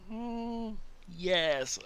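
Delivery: very high, thrilled gasp of discovery; a tourist lighting up with joy; high squeal of delight; excited realisation. Retold or imitated. Tourist's eyes lit up.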